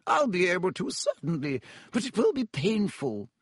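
high-pitched, stern warning; grim. A narrator's reading. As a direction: warn the patient with grim certainty. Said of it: "said Madam Pomfrey grimly".

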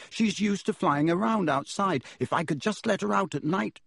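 put-on boy pleads for his owl; young boy voice; boy's voice. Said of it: "he said".

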